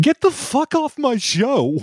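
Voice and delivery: put-on high, slow old-man yell; Edwin voice. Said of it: "do Edwin".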